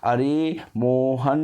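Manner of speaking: अरे मोहन very slow, final न held on; long-drawn call. Shown as a demonstration. Teacher demonstrating a far-off call, अरे मोहन hugely prolonged. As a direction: stretch every long sound in अरे मोहन, ringing out the न. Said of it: "एक प्रकार का ध्वनि है".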